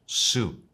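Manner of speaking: suit said slowly as /sut/, a long oo; English pronunciation. Shown as a demonstration. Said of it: "En inglés la pronunciamos".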